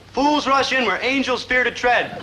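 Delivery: high, slow recitation; mock-solemn proverb. Friend sends him off with a warning, slow high pronouncement. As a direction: proclaim it as grand wisdom.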